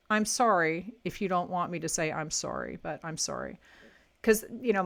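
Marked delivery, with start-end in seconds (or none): 0.1-3.6 "sorry" said the Canadian way; Canadian vowel on each "sorry"; Canadian accent. Real, not acted. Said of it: "I'm saying it the Canadian way".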